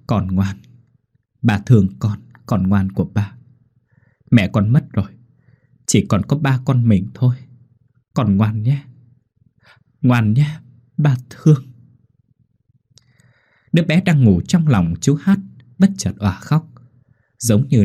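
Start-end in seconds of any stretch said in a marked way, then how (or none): 0.1-11.6 tender murmur. Acted. Father holding his newborn, murmuring tenderly. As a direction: murmur gently to the baby in your arms. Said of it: "thổ thỉ".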